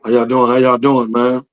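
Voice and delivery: hoarse, worn-out voice; raspy voice. Real, not acted. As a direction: voice nearly gone from yelling. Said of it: "Listen to that voice".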